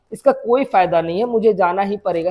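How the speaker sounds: acted soft, low persuasion; gentle persuasion. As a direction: quietly reason with a crying lover. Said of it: "समझाने का कोशिश कर रहा है".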